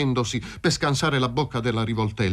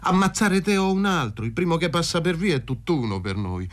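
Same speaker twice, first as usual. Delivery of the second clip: higher, agitated voice of a man with nothing to lose; bitter desperate man; 7 semitones higher than usual. Acted. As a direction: sneer it out at his rival. Fazio voiced, gun in hand. (uomo disperato e amaro)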